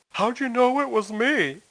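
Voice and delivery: high, drawn-out amazed question; mock astonishment. Caller wondering how the person knew, mock astonishment.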